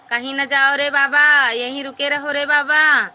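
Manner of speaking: loud, pleading call to stay; loud plea to a departing viewer. Real, not acted. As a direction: call out to keep them from leaving. Begging viewer not to leave.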